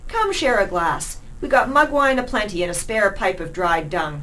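a touch of leering street rat; coarse rat's invite. Acted. Rat Marco inviting lass.

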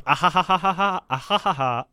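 mock character laugh; read-out laugh. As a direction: fake "ha ha" laugh, tipping into real laughter. Reading out a character's written laugh.

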